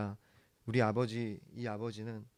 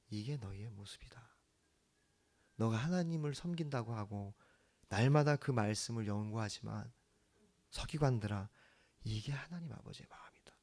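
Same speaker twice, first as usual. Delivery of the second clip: softer, half-whispered reproach to the scribes; hushed rebuke; 6 dB quieter than usual. Acted. Jesus rebuking scribes, retold.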